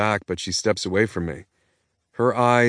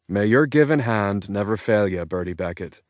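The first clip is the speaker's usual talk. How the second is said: Irish brogue. Acted. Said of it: "in my finest Irish brogue".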